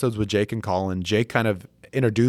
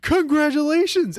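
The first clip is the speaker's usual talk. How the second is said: high, drawn-out Canadian cheer; Canadian accent; 3 dB louder, slower than usual. Retold or imitated. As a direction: congratulate a buddy in an excited Canadian accent. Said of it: "he's got this Canadian accent".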